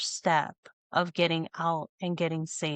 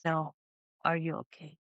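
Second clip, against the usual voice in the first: knowing, close-up concern; 2 semitones lower, 6 dB quieter than usual. Retold or imitated. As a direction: lean in and ask quietly, as if already knowing. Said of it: "he said it in such a way I knew".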